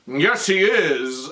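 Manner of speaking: slow, drawn-out zombie reply; imitated zombie pianist. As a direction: stretch the words out like a zombie.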